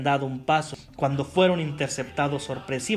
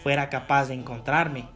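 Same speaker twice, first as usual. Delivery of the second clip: sneering gloating dark voice. Acted. Evil wizard taunting the couple.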